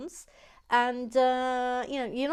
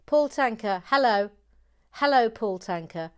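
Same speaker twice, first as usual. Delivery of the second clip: loud, proclaimed welcome; big announcement; 2 semitones higher, 9 dB louder than usual. Pretend. Host announces new member Paul Tanker, loud proclamation. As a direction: proclaim the newcomer's name with ceremony.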